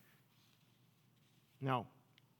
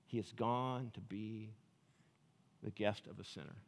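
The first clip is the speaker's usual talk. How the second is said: muttering crowd; 6 semitones lower, 11 dB quieter than usual. Retold or imitated. People muttering about Jesus.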